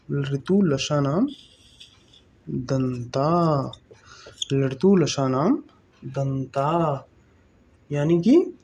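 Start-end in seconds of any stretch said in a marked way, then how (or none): 0.1-7.1 slow dictation. Shown as a demonstration. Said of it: "क्या आप भी लिखेंगे मेरे साथ".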